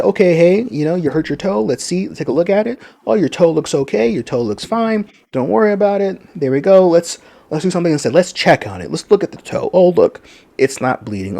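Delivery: calm a little one who stubbed a toe, gently; comforting parent. Retold or imitated. Parent comforting child's hurt toe.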